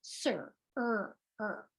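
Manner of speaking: "sir" said with a long open vowel, no r; sir without r. Shown as a demonstration. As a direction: drop the r in "sir", stretch the vowel. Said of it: "as it is meant to be pronounced".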